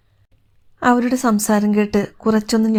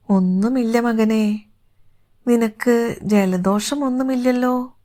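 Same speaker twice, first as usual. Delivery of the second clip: motherly concern; 3 semitones higher, slower than usual. Acted. Mother gently asks after son's health.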